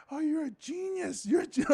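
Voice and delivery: high-pitched mock adulation; excited, high praise; imitated gushing fans. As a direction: gush like an impressed audience member. Crowd gushing at him after the set.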